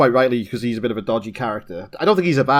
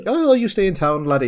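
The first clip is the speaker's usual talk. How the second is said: a hint of Scottish, pitched higher; lightly put-on Scottish cop voice; Scottish laddie, lightly imitated; mock Scottish accent; 7 semitones higher than usual. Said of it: "that was the Scottish one".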